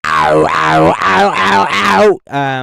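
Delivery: loud crunchy "ow" mimicking overdriven plucks; distorted pluck imitation. Shown as a demonstration. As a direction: bark out the smeared distorted synth plucks. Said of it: "in comparison to".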